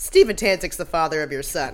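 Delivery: mock blunt, cutting, savage flat-out delivery. Retelling a scene where a detective confronts a suspect: imitating a savage retort. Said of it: "savagely goes".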